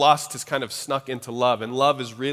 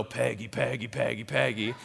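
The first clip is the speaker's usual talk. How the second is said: soft calling; 2 semitones lower, 6 dB quieter than usual. Retold or imitated. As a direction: coax her gently, name repeated. Calling to aunt to hear voice.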